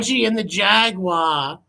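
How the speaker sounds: slow, lifted storybook reading; mock storybook announcer; storybook title. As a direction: announce it like a children's book title. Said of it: "That sounds like a children's book".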